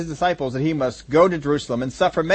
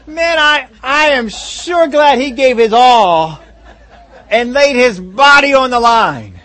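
mock sarcastic praise; 5 semitones higher, 6 dB louder, slower than usual. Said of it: "That's what you say?".

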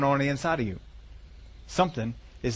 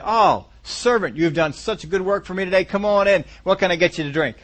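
mock gracious master; 3 semitones higher than usual. Master of the house fawning over his tired servant, mock sweet. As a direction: fawn over the servant like a too-kind master. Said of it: "how many of you masters of the house would say".

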